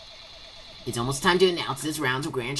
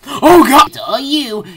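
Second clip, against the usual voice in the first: surprised; 11 semitones higher, 14 dB louder, slower than usual. Real, not acted. Shocked at game outcome.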